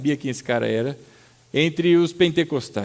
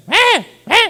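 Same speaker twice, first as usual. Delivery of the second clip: very high, louder cawing "É, é"; crow caw imitation; 7 dB louder than usual. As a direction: squawk like a crow. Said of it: "eles começam".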